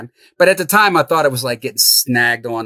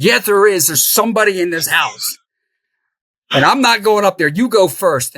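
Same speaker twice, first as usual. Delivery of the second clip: frightened insistence; 7 semitones higher, 3 dB louder than usual. Retold or imitated. Insisting in fear to partner.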